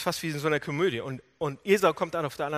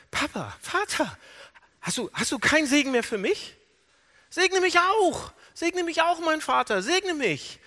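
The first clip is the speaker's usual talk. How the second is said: high, drawn-out pleading wail; desperate cry; 11 semitones higher, 4 dB louder than usual. Retold or imitated. Esau begging his father for a blessing, crying out desperately. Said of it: "er hat angefangen zu schreien".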